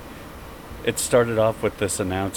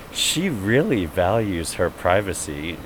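ad announcer. Retold or imitated. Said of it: "he says".

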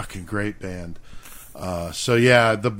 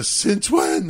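much higher mock shrill squeak; high-pitched voice; 10 semitones higher than usual. Recalling Lenny's line for the co-host, high and shrill. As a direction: squeak it like an angry friend. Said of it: "The high pitch".

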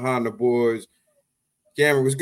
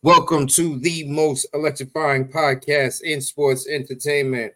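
ringmaster. Acted. Podcast intro in announcer style.

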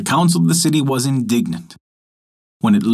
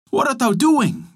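much higher, alarmed demand; angry demand; 13 semitones higher than usual. A narrator's reading. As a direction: confront the monster. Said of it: "demanded the rabbi".

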